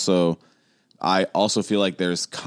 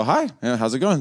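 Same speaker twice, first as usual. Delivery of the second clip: Jerry's regular voice; 5 semitones higher than usual. Retold or imitated. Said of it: "just regular speaking Jerry voice is not acceptable".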